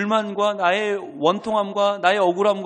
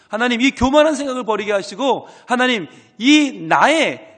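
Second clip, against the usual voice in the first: crying-out prayer. Shown as a demonstration. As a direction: pray aloud, rising into a cry. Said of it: "부르짖어야 돼요".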